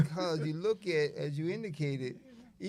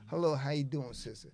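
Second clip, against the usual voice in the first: polite greeting; 2 semitones lower than usual. Retold or imitated. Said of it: "art of conversation".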